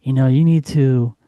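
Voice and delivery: low sultry chili-cooking pitch; sexy voice. Retold or imitated. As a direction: seduce them with the recipe. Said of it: "your best sexy voice, your best, you know, naughty voice".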